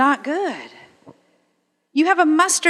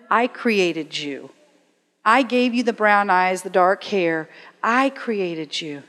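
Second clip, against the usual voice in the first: tender divine father; 3 semitones lower than usual. Acted. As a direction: say it gently, like a father to his child. Voicing God as father.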